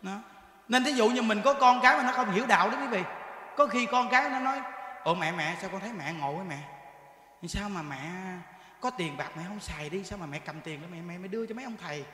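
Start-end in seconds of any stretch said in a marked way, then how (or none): 5.0-12.1 put-on child's voice. Con cái chất vấn mẹ.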